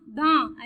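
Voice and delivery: दा as an open "daa" without n; silent final n. Shown as a demonstration. Teacher showing how it is spoken, दा with no final n. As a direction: end दा on the long vowel, nasal letter dropped. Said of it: "ऐसे बोलते हैं".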